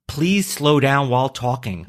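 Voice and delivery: slow, measured read-out of a listener's request. Retold or imitated. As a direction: read it out slowly, word by word. Reading a complaint about fast talking.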